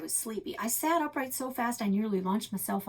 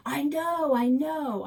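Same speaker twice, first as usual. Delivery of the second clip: louder, cutting in fast; impatient interruption; 7 semitones higher, 8 dB louder, slower than usual. Acted. Narrator girl loudly interrupting Alex's Arizona talk. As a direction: cut him off impatiently. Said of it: "I interrupted".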